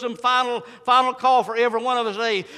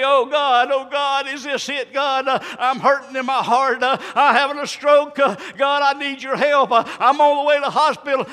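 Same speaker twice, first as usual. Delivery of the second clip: preached cry for help, building louder; anguished plea; 2 semitones higher, 3 dB louder than usual. Acted. Sinner begging God on the way to hospital, preached urgent plea. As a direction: plead to God in rising urgency. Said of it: "you're crying and you're in tears and you're in pain".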